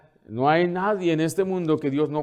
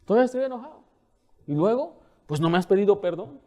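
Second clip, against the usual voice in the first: higher, pouting voice of a stubborn offended person; mock sulky grudge; 8 semitones higher than usual. Pastor imitating a churchgoer who stays angry, higher and pouty. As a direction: play the sulker who won't let it go. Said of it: "no responde, ¿qué?".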